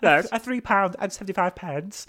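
lightly voiced fast-food worker; put-on shop worker voice. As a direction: play the burger shop clerk, a touch put on. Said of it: "I'll do it in this voice then".

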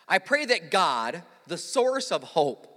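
slow, measured Bible reading; scripture reading. Acted. Pastor reads Romans to the congregation, slow and measured. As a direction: read the verse slowly and deliberately.

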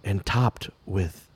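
ASMR reading. Pretend. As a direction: murmur it slowly like ASMR. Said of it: "I'm gonna make one for you".

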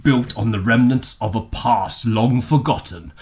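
movie trailer voice. Shown as a demonstration. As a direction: announce it like a film trailer. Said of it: "Begin speaking in movie trailer voice".

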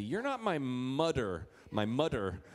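"mudder" with a d for th; slow childish "mudder"; little kid mispronouncing. Retold or imitated. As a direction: say "mudder" like a small boy. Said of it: "he couldn't quite get it right".

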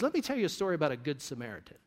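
fast, quiet, a touch wry; quick knowing reply. Retold or imitated. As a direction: answer him quickly and knowingly. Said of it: "And Jesus says".

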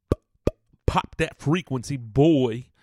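loud, high hype-man bark; loud hype-man "pop that frequency"; hype-man shout. Acted. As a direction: pump it up like an MC. Hyping the pop filter.

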